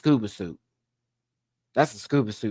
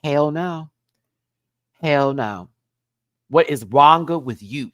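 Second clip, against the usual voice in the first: louder mock telling-off; playful yelling; 4 semitones higher, 6 dB louder than usual. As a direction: yell at the outfit with sass. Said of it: "yell at it like I want to".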